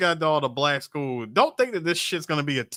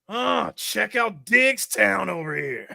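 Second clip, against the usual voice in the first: Chucky taunt; slower than usual. Retold or imitated. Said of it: "I can hear Chucky right now".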